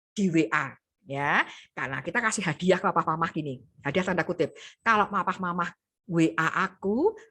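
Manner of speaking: low, calm, gentle reply; low pitch do rendah. Shown as a demonstration. Child answers parent calmly in low tone. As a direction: stay low and steady. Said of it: "Tetap do rendah".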